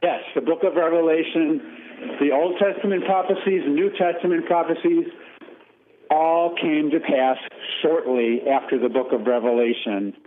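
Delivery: speakerphone call. Real, not acted. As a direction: voice through a speakerphone. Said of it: "You sound like you're on a speakerphone".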